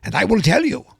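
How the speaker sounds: host welcoming listeners as a campy Transylvanian count; vampire accent. Pretend. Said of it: "with a very stereotypical European accent used for vampires".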